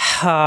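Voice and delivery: হা with a long rush of throat air; warm-air h. Shown as a demonstration. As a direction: breathe out the h of হা, then hold the vowel. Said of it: "গরম বাতাস বের হবে". (গরম বাতাস ছেড়ে হা)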